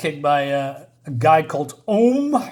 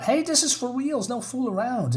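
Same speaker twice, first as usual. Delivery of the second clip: mock earnest plea; 8 semitones higher, 4 dB quieter than usual. Kyle insists to ex-girlfriend.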